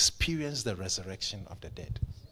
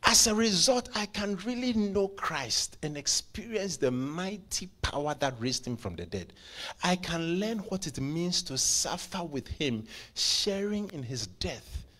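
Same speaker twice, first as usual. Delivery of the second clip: declaimed scripture; 7 semitones higher than usual. Real, not acted. Preacher reading scripture on knowing Christ, declaimed. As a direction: proclaim the verse in a raised voice.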